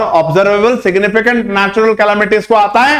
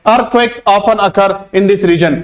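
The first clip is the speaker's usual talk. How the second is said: slow example sentence; much slower than usual. Shown as a demonstration. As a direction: read each word out slowly and clearly. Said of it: "examples के जरिए मैं आपको समझाना चाहूंगा". (धीरे-धीरे साफ़ पढ़ा गया उदाहरण वाक्य)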